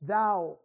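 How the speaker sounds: thou said on its own, leaned on; stress on thou. Shown as a demonstration. Preacher pointing to the word Thou. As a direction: lean on the word Thou as the key word. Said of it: "it puts that emphasis on thou".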